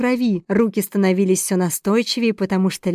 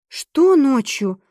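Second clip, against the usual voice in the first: slow, higher, stunned Что ночью; startled question; 4 semitones higher, 3 dB louder, much slower than usual. Acted. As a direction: drag out the disbelief. Vanessa startled by night visit.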